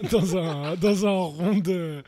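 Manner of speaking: high, laughing through the words; giggling while talking. Real, not acted. Laughing at the Roomba joke.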